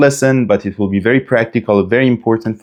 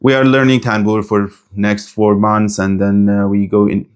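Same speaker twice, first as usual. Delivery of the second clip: flat monotone. Shown as a demonstration. Teacher demonstrating boring talk without emphasis, monotone. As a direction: drone on like a bored speaker with no intonation. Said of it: "imagine I talk with you like this".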